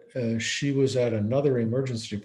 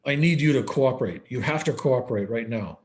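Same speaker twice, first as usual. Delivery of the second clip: gruff demand; 4 dB louder than usual. Retold or imitated. Psychiatrist ordering a dissociated patient, mock gruff demand. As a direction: bark for cooperation like a stern psychiatrist. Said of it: "in a very gruff voice".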